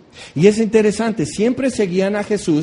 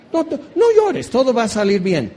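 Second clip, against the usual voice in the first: much higher, sing-song mock consoling; mocking empty comfort; 5 semitones higher than usual. Preacher mocking people who console mourners, high sing-song parody. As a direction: parody a hollow reassurance. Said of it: "¿Cómo me choca cuando me dicen eso?".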